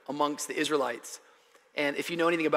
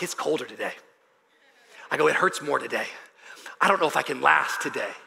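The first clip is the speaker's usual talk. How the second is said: negative complaining; 4 semitones lower than usual. Retold or imitated. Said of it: "talking negative like this".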